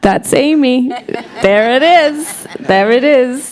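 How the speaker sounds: high, delighted exclamation; retold delight. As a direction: recount it like you just found the perfect match. Retells her delighted reaction to Florence.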